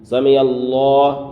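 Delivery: سمع اللہ with a heavy, full lam in اللہ; سمع اللہ, اللہ said thick and full; full Allah. Shown as a demonstration. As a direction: make اللہ full and rounded. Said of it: "اللہ کے نام کو یہاں پر پر کرنا ہے".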